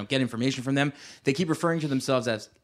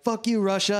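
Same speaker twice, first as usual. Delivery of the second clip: mock American bluster; 8 semitones higher than usual. Mocking Americans in film scene.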